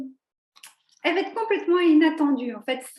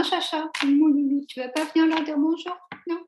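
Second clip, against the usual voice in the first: cooing pet talk; 3 semitones higher than usual. Real, not acted. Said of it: "t'aimes pas quand je parle comme ça".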